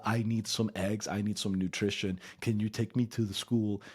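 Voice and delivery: lightly voiced needy child; babyish mock plea. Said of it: "like a fucking baby".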